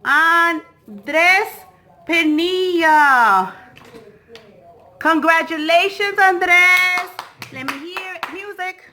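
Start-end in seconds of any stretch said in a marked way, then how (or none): 0.1-7.1 higher cheerful congratulations; beaming announcement; excited congrats. Real, not acted. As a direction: cheer the winner on. Celebrating the winner.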